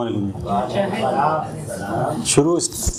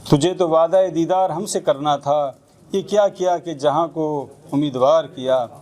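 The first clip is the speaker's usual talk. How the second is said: measured Urdu ghazal recital; spoken verse, each couplet falling to its refrain; poetry recitation. Acted.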